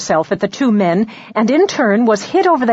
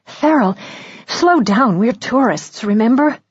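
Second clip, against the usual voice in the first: anxious woman; 3 semitones higher than usual. Acted. Urging Farrell to slow down.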